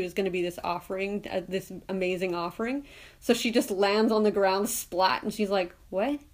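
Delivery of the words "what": rising, higher, a mildly indignant double take; mock indignant surprise. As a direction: play a miffed, let-down girl. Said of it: "she's all mad and disappointed".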